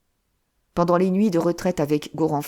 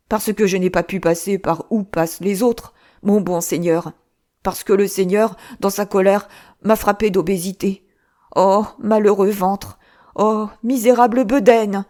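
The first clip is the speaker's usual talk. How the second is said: louder wailing lament over his belly; lamenting cry; 2 semitones higher, 4 dB louder than usual. Acted. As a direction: wail it, slowing on the complaint. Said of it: "criait le roi". (le moine crie sa lamentation sur son ventre)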